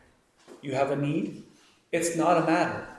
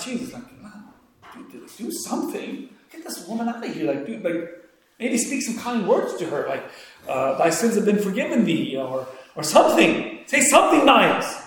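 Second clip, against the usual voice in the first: exasperated Peter; 3 semitones higher than usual. Retold or imitated. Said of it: "Peter stands up and says".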